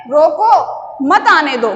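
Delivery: "रोको", clear pause, "मत आने दो" run together; pause after रोको. Shown as a demonstration. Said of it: "चिन्ह का प्रयोग, अ, अलग स्थान पर".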